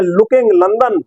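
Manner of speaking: lightly imitated commentator's slow one-liner; Sidhu. Presenter quoting Sidhu's catchphrase to viewers, mildly declaimed impression. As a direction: draw out the rhyme, lifting then dropping at the end. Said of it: "अब सिद्धू बोल रहे हैं".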